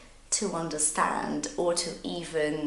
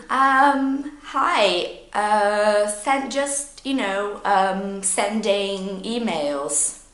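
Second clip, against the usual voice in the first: flustered, halting answer full of fillers; nervous hesitation; 3 semitones higher, 4 dB louder, much slower than usual. Acted. Busy worker caught off guard by a greeting, nervous. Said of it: "happens when you're nervous".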